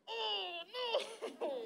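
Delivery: soft mock wail; a quiet whimpering oh no; hammed-up dismay. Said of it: "mom's dismayed reaction".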